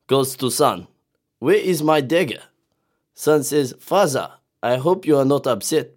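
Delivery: put-on Russian accent. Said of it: "I'll say it in the accent of father himself".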